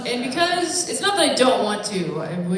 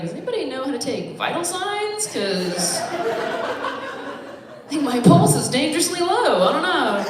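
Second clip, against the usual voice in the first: mock panic; 6 semitones higher, 4 dB louder, slower than usual. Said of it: "and I'll just be like".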